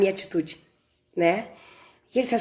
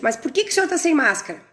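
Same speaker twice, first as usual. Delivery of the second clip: vehement; 5 semitones higher, faster than usual. Retold or imitated. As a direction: demand it forcefully, no more patience. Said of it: "ó, veementemente". (pergunta veemente e rápida)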